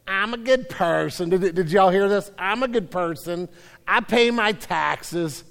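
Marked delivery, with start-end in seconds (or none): 0.1-1.3 lightly imitated bad Italian accent from a radio ad; mock radio-ad lady in a hint of Italian accent; half-hearted Italian-accented ad read. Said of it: "this lady with a really bad Italian accent will go". 2.4-5.4 bad Italian accent. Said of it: "this lady with a really bad Italian accent will go".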